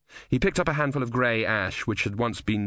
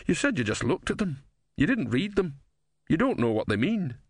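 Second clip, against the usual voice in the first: put-on higher-pitched old philosopher, reasoning; challenging old philosopher; 7 semitones higher than usual. Didactylos challenges Brother about the books, old philosopher's voice. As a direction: voice an old thinker disputing a claim.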